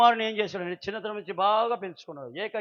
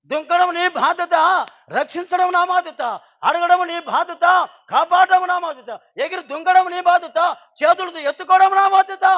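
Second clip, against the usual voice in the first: put-on loud, higher calls to the boy below, each line punched; father calling out; 7 semitones higher, 8 dB louder than usual. Father shouting up to his son to jump, loud and urgent.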